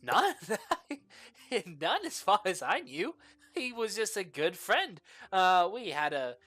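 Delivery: nervous laughing. Acted. NPC nervously denies enemies.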